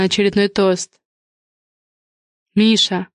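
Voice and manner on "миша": gentle. Acted. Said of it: "мягко сказала Алина".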